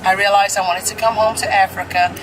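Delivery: put-on light country Kansas accent, quoting a woman; a hint of a Kansas accent, retelling. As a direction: imitate her easy Kansas way of talking. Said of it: "your country accent is actually pretty good".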